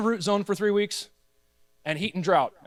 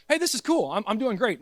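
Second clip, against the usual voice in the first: happy plant voice; 3 semitones higher than usual. Pretend. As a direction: speak as a relaxed plant that's doing great.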